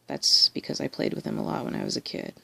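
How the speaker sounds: breathless, talking between breaths; winded, catching your breath. Real, not acted. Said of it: "out of breath".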